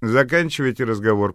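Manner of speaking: a loud, flat telephone operator's announcement; the switchboard cuts them off, mechanical. Acted. Operator ends the call, in a mechanical voice. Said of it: "механическим голосом".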